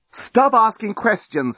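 slow, high-pitched irritated snap; snapping. A narrator's reading. Journalist silences his captive's questions, snapping. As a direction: cut her off with deliberate irritation. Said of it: "snapped the journalist".

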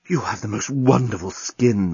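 mild swooning groan; amorous moan. Acted. Alien nibbling Lucy's ear, amorous moan. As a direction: moan it with understated desire. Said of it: "moaned the journalist".

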